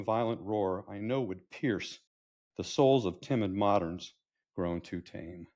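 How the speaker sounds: measured, declaimed verse; poem recital. Acted. Grandfather extolling old cars to granddaughter, poetic recital. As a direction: recite with pauses at the line breaks.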